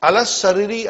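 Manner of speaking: "alas sariri" joined up, alif and lam dropped; silent alif and lam. Shown as a demonstration. Teacher showing which letters stay silent, "alas sariri" joined with doubled s. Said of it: "I did not pronounce alif".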